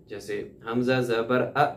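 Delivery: ا cut off with a sudden jerk; wrong jerked hamza. Shown as a demonstration. Teacher demonstrating the wrong jerk on ا. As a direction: show ا clipped short with a jolt, as the mistake. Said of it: "یوں اس کو جھٹکا دے دیتے ہیں".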